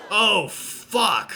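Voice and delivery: loud burst with a real laugh; laughing curse. Real, not acted. Player reacting to the shocking photo, laughing loudly. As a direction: crack up at the reveal. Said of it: "I can't talk right now".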